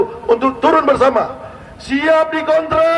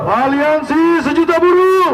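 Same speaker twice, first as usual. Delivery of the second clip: fiery revolutionary speech; 4 semitones higher than usual. Real, not acted. Rally leader leads a chant.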